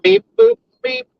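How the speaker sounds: high beeping robot; toy robot voice. Pretend. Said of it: "Zen says robot".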